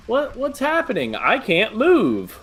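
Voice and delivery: high wail, drawn out at the end; mock helpless panic. Acting Arnold unable to move, hammed-up panic. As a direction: ham up being frozen in terror.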